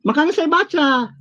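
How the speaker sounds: high-pitched protest; high, defensive comeback; defensive retort. Real, not acted. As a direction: push back, pitched high and indignant. Defensive retort in heated debate.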